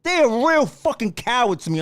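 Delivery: ordinary delivery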